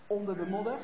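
ordinary delivery

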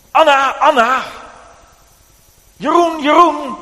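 put-on loud high call of the sleeping child's name; mysterious voice calling a sleeping child awake. A narrator's reading. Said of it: "En hij riep je naam".

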